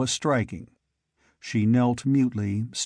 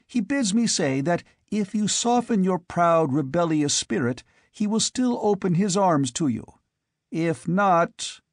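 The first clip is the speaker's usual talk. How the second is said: higher, measured threat from a masked lord; cold Aquilonian noble; 5 semitones higher than usual. Acted. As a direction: lay out the ultimatum coolly. Tall Aquilonian delivers the ultimatum.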